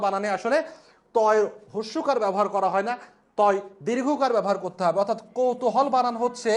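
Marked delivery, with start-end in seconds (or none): 5.4-5.9 slow model word. Shown as a demonstration. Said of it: "এটা হচ্ছে সঠিক বানান".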